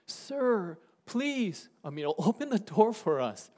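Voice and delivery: understated begging from outside a shut door; pleading. Acted. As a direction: plead politely, voice lifted. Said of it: "knocking and pleading".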